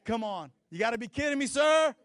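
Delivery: building from muttered grumble to loud, high outburst; hammed-up frustration at the coupon guy; a shopper losing patience in line, mock exasperated; mock exasperation. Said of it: "You're like".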